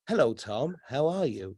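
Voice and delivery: lightly voiced robot greeting; a hint of mechanical small talk; malfunctioning robot. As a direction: mimic an automated hello. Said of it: "it's a malfunctioning robot".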